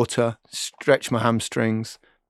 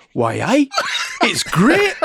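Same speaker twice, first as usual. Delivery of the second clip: Gazza impression; 13 semitones higher, 3 dB louder, slower than usual. Gazza quoted in the bath.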